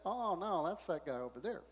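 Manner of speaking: dismissive scoff. Retold or imitated. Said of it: "They're saying".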